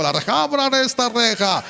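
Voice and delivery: high demanding call; retold inmate yelling to open; mock demand. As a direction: bang on the gate with words.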